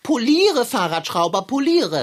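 cat ordering the bike mechanic to polish his boots, loud and lordly; pompous command. Acted. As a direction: bark it like a spoiled master. Kater orders boot polishing.

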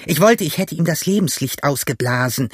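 high, cursing outburst; angry calling out. A narrator's reading. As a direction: rage at the ones who got away. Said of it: "rief der blinde Pugh".

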